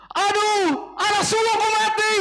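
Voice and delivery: high, loud cry of grief; anguished wail. Acted. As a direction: wail like a mother who just lost her firstborn. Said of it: "Orang Mesir teriak kayak gitu".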